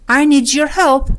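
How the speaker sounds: "need your" run together as "nee-jer". Shown as a demonstration. («need your» با صدای ج)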